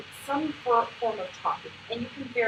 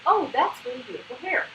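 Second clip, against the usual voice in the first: celebrating; 4 dB louder than usual. Shown as a demonstration. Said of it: "you wanna celebrate".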